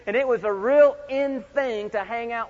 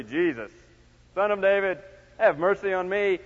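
mock-pious recital; measured churchy delivery; religious. Shown as a demonstration. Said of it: "wasn't saying it very religiously".

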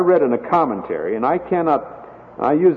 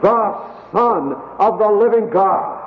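bold confession; 5 semitones higher than usual. Retold or imitated. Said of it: "Now in the weakness of, of the flesh".

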